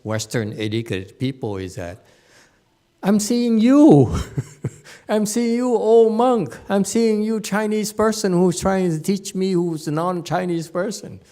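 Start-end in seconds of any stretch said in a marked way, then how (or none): 3.1-11.2 high, loud, emphatic mock objection; acted exasperated protest. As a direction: protest loudly to the teacher, pitched right up. Acts out his protest to monk.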